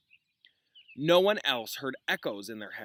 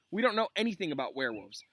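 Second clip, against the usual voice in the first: lightly voiced whiny student; 4 semitones higher, faster than usual. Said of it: "explosion of complaints".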